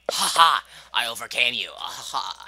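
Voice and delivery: loud gloating laugh; triumphant laugh. Real, not acted. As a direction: crow over the win. Beating a hard jump.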